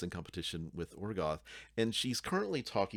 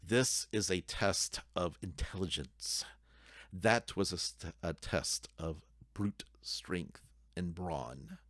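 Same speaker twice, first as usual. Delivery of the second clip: steely ogre; slower than usual. Acted. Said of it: "her blue eyes just steely looking".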